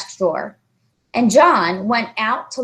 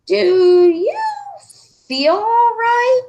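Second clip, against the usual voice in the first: slow concern; 4 dB louder than usual. Acted. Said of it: "said Miss Plimsoll slowly".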